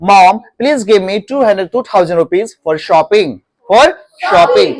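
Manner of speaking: slowish request to mom; asking mom for shopping money, slowly; slow model request. Shown as a demonstration. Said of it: "mom use करो".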